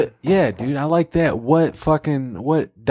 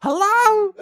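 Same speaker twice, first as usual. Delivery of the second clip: much higher, slow, laughing; God in the shower; much slower than usual. Acted. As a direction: call it high from the shower.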